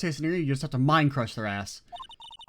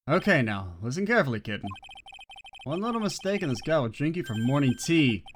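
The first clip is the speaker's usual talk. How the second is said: cool mentor voice. Acted. Voices Godot.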